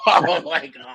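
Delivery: high, loud mock-horrified exclamation with a laugh; retold dismay. Acting out finding nothing was recorded, mock dismay. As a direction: play up the dismay, half laughing.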